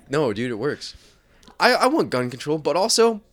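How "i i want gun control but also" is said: mock-earnest activist, raised pitch; leftist bit character. Friend insisting the bit works, hammed-up earnest activist.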